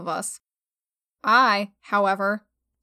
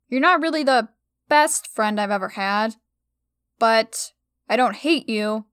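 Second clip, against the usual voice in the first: kinder. Acted. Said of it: "continue a bit more kindly".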